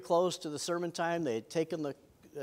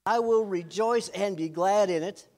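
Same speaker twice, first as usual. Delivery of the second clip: mock-cheerful, raised morning greeting; lightly hammed-up early-riser enthusiasm; spring out of bed rejoicing, playfully overdone; chirpy morning person; 4 semitones higher, 5 dB louder than usual. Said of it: "people out there who spring up out of bed".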